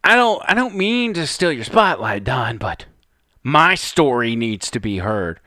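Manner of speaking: a hint of a pompous, self-important driver; mock pompous Bubba. Commentator mimicking Bubba's pompous line, lightly voiced. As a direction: parrot his line to show he's full of himself. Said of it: "The pompous attitude, you hear that?".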